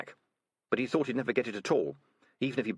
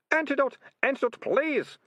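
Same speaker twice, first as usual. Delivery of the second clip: very high, desperate moan; moaning plea; 4 dB louder than usual. Acted. Poisoned ratcatcher begging captors for antidote, moaning. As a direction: beg for relief in a wail. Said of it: "moaned the Ratcatcher Two".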